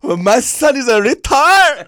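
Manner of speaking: a hint of an outraged mother, high, loud and slow; mock mom. Son imitating his mom griping to her friends, lightly mocking. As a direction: play the indignant mom lightly.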